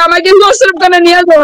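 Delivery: retold begging, with a real cry breaking in; crying plea. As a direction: beg through tears, reliving it. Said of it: "আমি কান্না করে ভিক্ষা চাইছি". (কান্নাভেজা কণ্ঠে অনুনয়)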